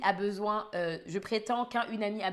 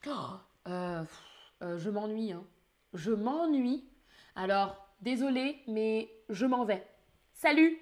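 bored. Acted. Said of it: "Tu dis que tu t'ennuies".

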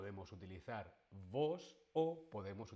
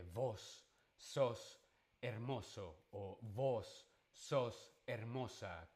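Argentine voseo; slower than usual. Retold or imitated. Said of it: "que te dice".

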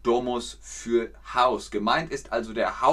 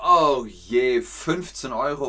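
dismayed exclamation; 4 dB louder than usual. Shown as a demonstration. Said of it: "man sagt entweder".

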